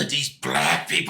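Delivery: slow, acted loathing; drawn-out, hammed-up revulsion; mock hateful disgust. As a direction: imitate a character seething with contempt. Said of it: "she had a hatred for black people".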